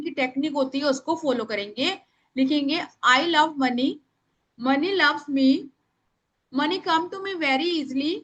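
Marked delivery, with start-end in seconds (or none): 3.1-8.1 a little slower, for writing down; slow dictation; speaking slowly. Shown as a demonstration. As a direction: give them time to write. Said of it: "मैं धीरे धीरे बोल रही हूँ".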